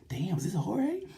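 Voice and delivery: hushed awed whisper, pitch rising; whispered Marquez aside. Retold or imitated. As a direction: whisper it like a rival stunned behind him. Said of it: "even Marquez like".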